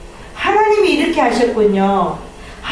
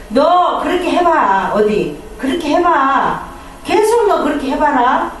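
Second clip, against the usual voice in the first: warning parent; 3 semitones higher than usual. Retold or imitated. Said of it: "이렇게 말하고".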